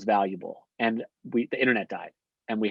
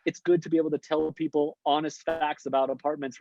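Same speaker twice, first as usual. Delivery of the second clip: defensive; 5 semitones higher than usual. Real, not acted. Defending himself, laughing it off.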